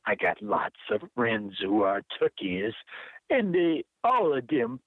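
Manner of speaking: put-on poem read in a light Jamaican accent. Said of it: "use my best Jamaican accent".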